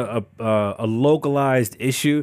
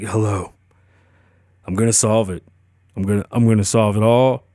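blunt and dry; 3 semitones lower than usual. Retold or imitated. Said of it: "He's just so blunt and dry".

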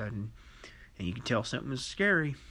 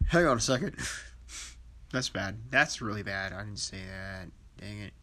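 self-correcting alarm; 4 dB louder than usual. Retold or imitated. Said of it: "And I'm like".

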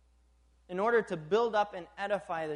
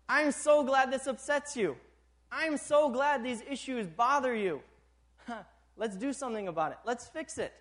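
eager encouragement; 4 semitones higher, 4 dB louder than usual. Retold or imitated. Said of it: "And God says".

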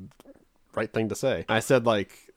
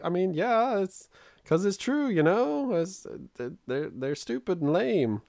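retold sheepish admission; 8 semitones higher, slower than usual. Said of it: "I was just like".

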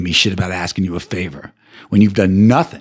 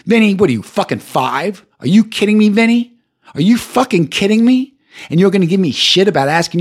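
furious disbelief, pitch way up; angry rant; 8 semitones higher than usual. Real, not acted. Ranting at friend Vinny.

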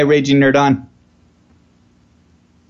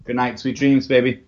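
tender goodnight; 4 dB quieter than usual. Real, not acted. Saying goodnight to daughter softly.

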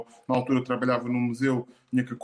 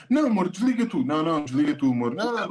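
giggly late night call. Retold or imitated. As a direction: coo at a partner on the phone. Mimicking couple's hang-up game.

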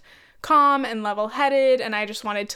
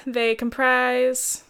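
slow misread; much slower than usual. Real, not acted. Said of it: "sorry, no".

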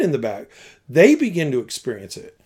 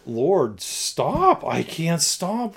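helpless plea; 4 dB quieter, much slower than usual. Retold or imitated. Retold helpless plea while crying.

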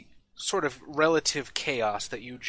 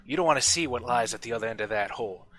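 smith's ominous warning; 5 dB louder than usual. Acted. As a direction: ominously warn the kid. GM voices Ardmore warning.

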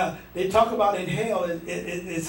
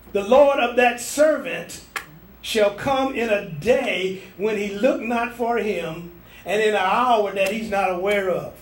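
slow scripture; 4 dB louder than usual. Acted. Preacher quoting scripture.

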